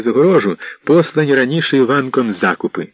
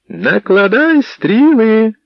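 high, loud, drawn-out command; loud shout; 12 semitones higher, 5 dB louder, much slower than usual. Acted. Іванко shouting a command loud on purpose, slow bellow. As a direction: bellow the order so the gate hears. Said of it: "навмисне голосно крикнув Іванко".

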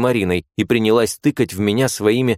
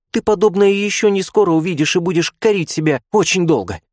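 put-on much higher girlish voice, pushy and lecturing; bossy young nurse; 9 semitones higher than usual. A narrator's reading. Nurse pushing shy Marina to look, bossy. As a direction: nag her into looking.

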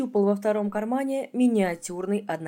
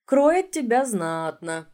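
regretful; 4 semitones higher, 5 dB louder, slower than usual. Acted. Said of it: "с огорчением".

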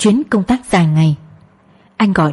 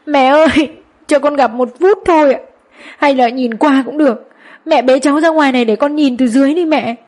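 crying out; 6 semitones higher than usual. A narrator's reading. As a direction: wail the plea through tears. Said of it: "vừa khóc vừa gào lên".

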